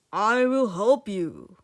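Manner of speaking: loud, slow lordly eagle; great eagle. Acted. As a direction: grant help slowly like a great bird. Eagle voiced in story.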